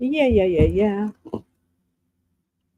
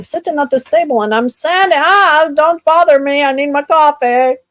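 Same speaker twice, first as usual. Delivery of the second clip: grumpy coffee grouch; 6 semitones higher, 7 dB louder than usual. Pretend. Acting a grumpy sad cafe guest.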